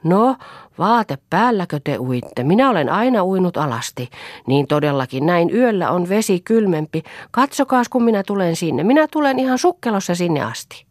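high, loud calling out over water; almost shouting. Acted. Mother half-shouting from the shore before diving. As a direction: call out half-shouting to the swimmers. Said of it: "melkein huutaen puhella".

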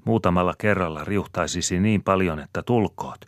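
high, loud pressing argument; heated urging. A narrator's reading. Wife argues urgently with her worried husband. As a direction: push him hard to do it.

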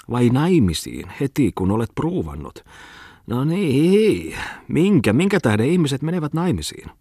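high, plaintive wail; whining shrill voice. A narrator's reading. Muttinen suddenly wailing about marriage, whining and shrill. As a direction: whine it way up high in pitch. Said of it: "valittavalla kimeällä äänellä".

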